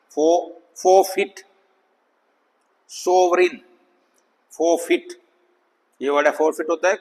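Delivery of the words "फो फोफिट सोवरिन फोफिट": "फोफिट, सोवरिन" with short I in the last syllable. Shown as a demonstration. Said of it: "short आई".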